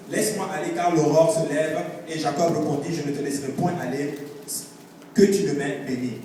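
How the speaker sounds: emphatic, projected Bible reading; scripture reading. Real, not acted. Preacher reads Jacob's struggle to the congregation, emphatic scripture reading. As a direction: read the verse out firmly to the room.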